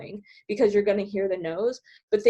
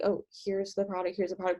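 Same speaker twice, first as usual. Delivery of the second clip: flat, mechanical robotic delivery; 5 dB quieter than usual. Retold or imitated. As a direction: recite it like a bored robot. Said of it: "like, a robot".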